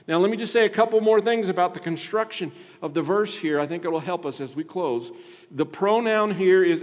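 loud, high pastoral plea; impassioned preaching. Acted. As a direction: press the church hard to examine itself. Preaching at full force.

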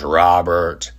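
imitated low, tight seething; through gritted teeth. Showing how the cook said his name, through gritted teeth. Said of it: "He gritted his teeth and goes".

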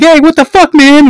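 husband catching the other dude, mock outraged shout. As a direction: burst in like a betrayed husband. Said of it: "He's like".

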